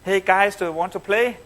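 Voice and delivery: lightly imitated bright, perky invitation; bright, sharp greeting. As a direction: retell her sharp, upbeat opener, lilting up at the end. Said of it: "with a bright, sharp accent".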